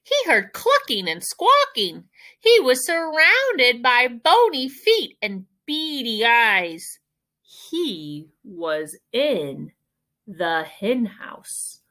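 animated storytelling, slowing right down; read-aloud for children. A narrator's reading. Teacher reading a picture book to children, animated narration. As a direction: read it to little ones, stretching the last phrases.

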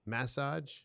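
"Massage" said MASS-ahj, as a question; "Massage" with a clear "mass" up front; first-syllable massage. Shown as a demonstration. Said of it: "do I say massage or massage".

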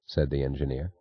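usual speaking voice

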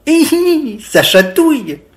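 high "hi, hi" giggle; ticklish giggle. A narrator's reading. Biquette being spread with butter, giggly.

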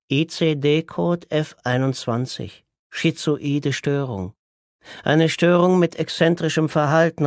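reading a diagnosis out like a proclamation; Orest reading aloud. Acted. Orest reads from a medical book. (hoch und langsam vorlesend)

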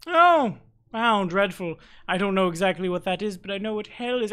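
a touch of high mock shock; lightly hammed horror; mock dismay. NPC reacts.

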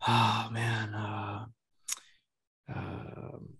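lightly imitated dad, hesitant and heavy; a trivial request made to sound grave, with long pauses; dad's ominous tone. Daughter mimicking dad asking for help, mildly ominous. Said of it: "your tone did not tell me".

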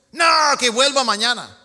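loud flat no from a guard; mock security guard barking no; gruff refusal. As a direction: shut them down firmly. Security team refusing the crowd.

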